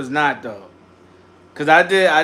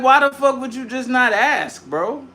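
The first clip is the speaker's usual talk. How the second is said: mock outrage; 9 semitones higher than usual. Retold outburst over sandwich.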